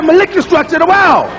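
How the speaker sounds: Malik structure the wall, home dialect; dialect pronunciation. Retold or imitated. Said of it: "where I've been living all my life".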